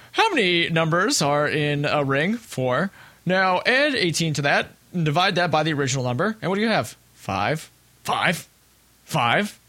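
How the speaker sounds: lightly imitated wrestler promo, slow and drawn; a hint of a dim wrestler cutting a promo; wrestling promo. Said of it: "He goes".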